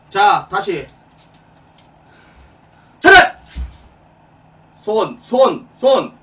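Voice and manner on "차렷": high barked command; drill sergeant. Acted. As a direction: bark it like a drill instructor. Attention command shouted.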